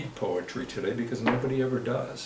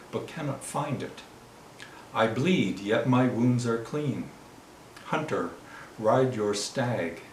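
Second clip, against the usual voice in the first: measured lyric delivery, phrase by phrase; poetry reading. Acted. Poet as stag speaks to hunter, measured poetry reading. Reads short love poem.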